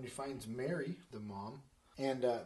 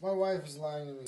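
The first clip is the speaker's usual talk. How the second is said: louder, higher mock grumbling; acted annoyance; mad husband; 4 semitones higher, 6 dB louder than usual. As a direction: complain as a wronged husband. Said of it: "He's mad".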